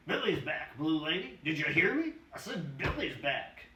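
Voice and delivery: put-on old hobo calling across the fire. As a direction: raise the voice so she hears. Doc calls to the woman.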